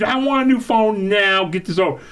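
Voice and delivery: high, insistent customer demand; retold screaming. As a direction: replay an angry order to staff. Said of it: "I started screaming".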